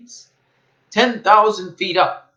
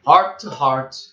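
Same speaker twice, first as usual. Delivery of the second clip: Whoville carol. A narrator's reading. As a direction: chant it warmly like a song. Whos' Christmas song, recited.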